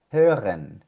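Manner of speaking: "hören" with audible H, rounded ö; H with O umlaut. Shown as a demonstration. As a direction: model "hören" alone in German. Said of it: "La H con la O umlaut".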